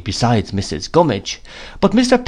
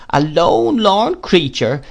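higher, slow, self-pitying widow; Mrs Gummidge's lament; 6 semitones higher, slower than usual. A narrator's reading. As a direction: drag out lorn like a moan. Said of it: "said again that she was".

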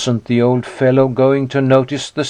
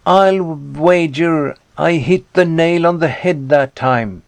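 gloating; 4 semitones higher than usual. A narrator's reading. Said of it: "His wife laughed".

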